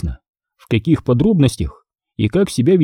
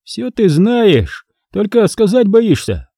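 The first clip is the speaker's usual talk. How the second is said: very slow, higher bored drawl; bored yawn; 9 semitones higher, slower than usual. A narrator's reading. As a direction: yawn the words out. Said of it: "зевнул он от скуки".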